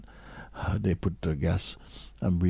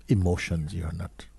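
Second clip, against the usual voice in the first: whisper; 3 dB quieter than usual. Shown as a demonstration. Teacher naming what is not self.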